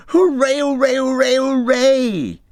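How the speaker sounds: high, loud hooray; cheering. A narrator's reading. Rat cheers on finding something in the snow. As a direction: cheer it out in triumph. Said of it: "Suddenly the rat cried".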